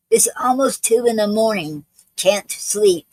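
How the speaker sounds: reading a love sonnet aloud; poem reading. Acted. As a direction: recite your own poem line by line, pausing between phrases. Reads own sonnet aloud.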